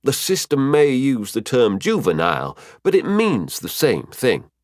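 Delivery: clarify, slowing at the end; a hint of a patient teacher; mentor figure, explaining. Figure of Mafira explains further.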